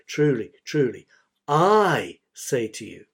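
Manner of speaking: weighty, deliberate stress on TRULY and I; emphatic. Shown as a demonstration. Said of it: "emphasis, emphasis".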